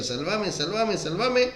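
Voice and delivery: rising, desperate cry of help; climbing pleading cry; anguished plea. Retold or imitated. Jesus crying out to the Father.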